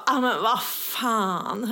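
slow, drawn-out retold curse; stretched-out mock exasperation; dawning dismay. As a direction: let the realisation sink in slowly. Retold dismayed realisation about car.

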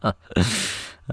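mild acted villain laugh; a short, understated evil chuckle. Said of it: "Evil laugh".

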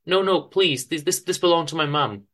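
terrified victim pleading with mugger; frightened pleading. Acted. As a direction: plead high and desperate. Madeline begs.

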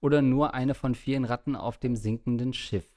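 measured, articulated read-aloud voice; reading listener letter aloud. Acted. Host reads a worried listener's doomsday letter to the co-host, in read-aloud style. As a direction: read it out as a written letter to the show.

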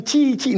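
imitated little chirps; high cheeping like nestlings; chirping baby birds. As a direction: mimic chicks calling for their mother. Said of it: "no paran de chillar".

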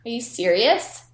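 a haughty fashion snob brushing it off; silly snooty voice. Retold or imitated. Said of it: "again, in that voice".

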